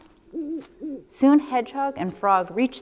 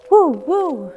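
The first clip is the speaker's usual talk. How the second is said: high breathy woo of the wind; wind noise; 7 semitones higher, 7 dB louder than usual. A narrator's reading. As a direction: blow it like the wind in the trees. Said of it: "the wind blew in the trees".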